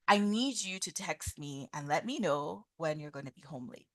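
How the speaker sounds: measured, worried but respectful; I-statement tone. Shown as a demonstration. Parent to teenage son home at two AM, calm concern. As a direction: voice concern gently, without accusing. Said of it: "using the I statement tone".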